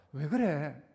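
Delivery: lightly voiced caring parent; gently concerned mother. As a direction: ask an upset child tenderly. Caring mother asks upset child.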